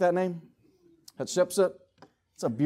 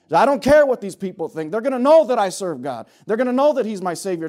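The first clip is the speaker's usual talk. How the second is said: raised, higher voice of open defiance; bold declaration; 3 semitones higher, 6 dB louder than usual. Acted. Believer standing up to people at work, bold. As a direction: declare it boldly, unashamed. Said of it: "just boldly stand for the Lord".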